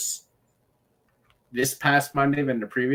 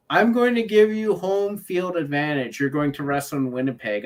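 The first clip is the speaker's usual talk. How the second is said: mock official announcement, lightly acted; Adam Pearce; 4 semitones higher, 4 dB louder than usual. Host mimics the official granting home field advantage, lightly mock-official. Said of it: "how Adam Pearce is like".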